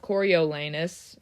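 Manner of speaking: Coriolanus in four syllables, cor-yo-la-nus; four-syllable version. Shown as a demonstration. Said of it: "four syllables".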